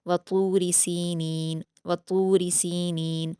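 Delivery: slow, careful Quranic reading; slow recited verse; tajweed recitation. Shown as a demonstration. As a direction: draw the verse out slowly. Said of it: "जज्म दे देंगे".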